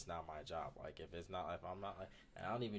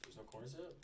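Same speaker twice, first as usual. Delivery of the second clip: higher disbelieving question; shocked, rising disbelief; surprised; 7 semitones higher, 6 dB quieter than usual. Real, not acted. Reacting to the ingredient list.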